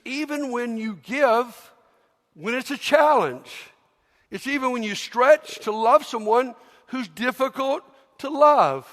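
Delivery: preacher swelling to the climax; rising preaching fervor. Real, not acted. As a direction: push up to a passionate peak.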